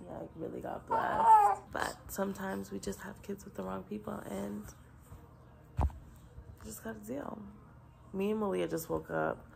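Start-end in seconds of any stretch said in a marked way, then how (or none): 0.1-7.4 emotional, holding back tears; choked up. Real, not acted. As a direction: voice breaking with tears. Tearful about her baby daughter.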